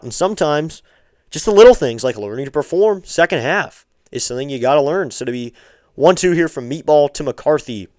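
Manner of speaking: steady broadcast call of each pitch; live play-by-play. Acted. Streamer calling the game for his viewers, play-by-play. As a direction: call the action like a radio announcer.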